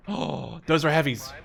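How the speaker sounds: startled. Real, not acted. Gasps at spotting heavy tanks.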